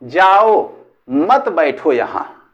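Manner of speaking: जाओ set apart, then slow मत बैठो यहाँ; pause after जाओ. Shown as a demonstration. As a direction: keep मत with बैठो, dragging it slightly. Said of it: "मैंने सुना".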